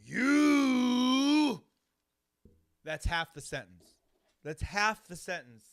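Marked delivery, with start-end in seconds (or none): 0.0-1.6 very slow, high, loud promo shout; Sergeant Slaughter cadence. Retold or imitated. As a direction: bellow each word with endless pauses. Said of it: "but of his cadence".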